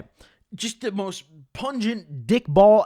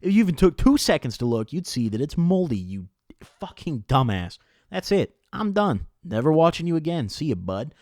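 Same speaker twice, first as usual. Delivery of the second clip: louder, sneering rant at the vlogger; mock angry commenter; 4 dB louder than usual. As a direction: play a furious troll in the comments, hammed-up. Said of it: "comments from all y'all being like".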